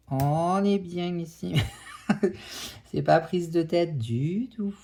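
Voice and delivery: sarcastic, laughing through it; ironic laughing. Real, not acted. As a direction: laugh while you say it, mocking yourself. Ironic, laughing while struggling.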